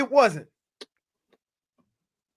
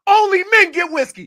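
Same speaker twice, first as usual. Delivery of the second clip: higher, louder, put-on voice; mock macho voice; 7 semitones higher, 7 dB louder than usual. Shown as a demonstration. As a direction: announce it like a tough guy. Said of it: "That's what I'ma say to you".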